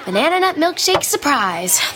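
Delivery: "surprise" given the emphasis, wry announcement; stress on surprise. Acted. New worker explains the mess to her friend, stressing "surprise". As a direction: lean on the word "surprise". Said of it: "Emphasis on the surprise".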